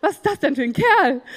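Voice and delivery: hoch und laut, lachend gestaunt; begeistertes Staunen. Retold or imitated. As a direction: lachend begeistert über den Kerl staunen. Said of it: "Ich war so". (hoch, laut und lachend begeistert)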